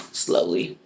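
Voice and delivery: low, hushed single word; hushed aside. Real, not acted. Admitting God is slowly working on mom, hushed aside. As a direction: drop it to a breathy near-whisper.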